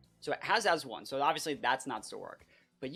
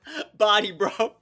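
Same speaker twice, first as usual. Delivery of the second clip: high, loud, laughing shrieks of joy; shrieking jackpot winner; 9 semitones higher, 13 dB louder, slower than usual. Real, not acted. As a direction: scream with joy over the win. Wins the game.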